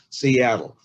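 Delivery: "Seattle" with the middle syllable stressed; stress on second syllable. Shown as a demonstration. Lecturer showing where the stress falls in the name, stressed clearly. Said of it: "three syllables with the emphasis on the second syllables".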